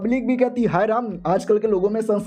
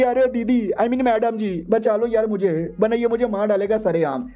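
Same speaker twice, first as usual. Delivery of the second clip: put-on pleading; 2 semitones higher than usual. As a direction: plead for rescue as a sham victim. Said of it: "वो अभी भी acting कर रहा है". (मदद माँगने का हल्का नाटक)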